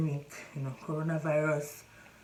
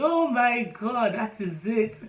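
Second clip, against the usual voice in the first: slow, higher, louder mock dread; mock alarm; 5 semitones higher, 5 dB louder, slower than usual. A pregnant woman jokes about a sneeze nearby, hammed-up alarm. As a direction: ham up the horror of a stranger's sneeze.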